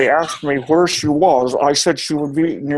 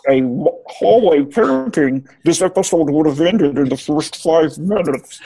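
as if speaking underwater; muffled underwater talk. Shown as a demonstration. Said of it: "you're also underwater".

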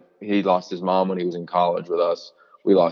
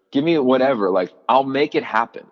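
passionate demand; 5 semitones higher than usual. Retold or imitated. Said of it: "like, passionately".

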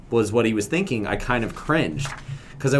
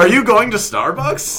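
much higher, goofy caricature of an American; American stereotype; 10 semitones higher, 4 dB louder than usual. Pretend. Host keeps mocking Americans, in a high goofy voice. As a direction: squeal it like a silly American cliché. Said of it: "How do I do our American stereotype?".

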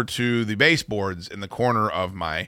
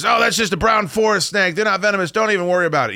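mock snake expert; 9 semitones higher, 4 dB louder, faster than usual. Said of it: "Dick goes".

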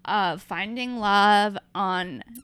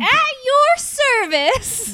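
slow, high captain-on-the-intercom voice; pilot announcement voice; 13 semitones higher, 6 dB louder, much slower than usual. Pretend. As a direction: announce it like a cheesy airline pilot. Playing airline pilots over intercom.

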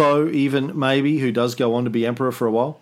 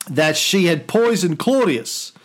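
roman orator; 3 semitones higher than usual. Acted. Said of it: "Senate and the people of Rome".

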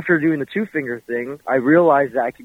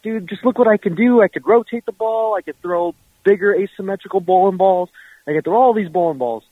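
bragging friend; 6 semitones higher than usual. Retold or imitated. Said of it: "and he's like".

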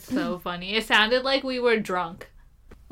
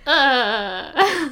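imitated gasping laugh; 3 semitones higher, 4 dB louder than usual. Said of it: "her laugher is one of those wind-up toys".

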